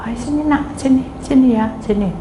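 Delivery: put-on coaxing call to a child; acted sweet persuasion; retold gentle coaxing. Coaxing sister down from tree.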